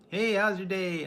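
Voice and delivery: high, bright sing-song hey; mock chipper greeting. Streamer mocking morning coworkers, high cheery voice.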